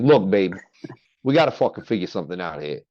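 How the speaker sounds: lightly voiced Italian-American wise guy; Italian persona. Stuck in character talking to his girl, light Italian accent. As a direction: slip into a mild Sopranos accent. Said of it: "I get caught in it sometimes".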